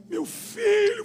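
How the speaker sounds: high, loud emotional cry; desperate mother. Retold or imitated. Mother addresses the visitor sent by God, desperate imitation. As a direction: imitate a mother overcome and crying out. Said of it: "minha mãe desesperada".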